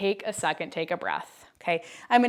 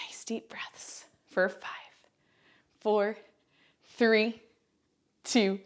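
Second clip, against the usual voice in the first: breathy whisper count; 3 semitones higher, 3 dB quieter, slower than usual. Real, not acted. Catching breath mid-workout.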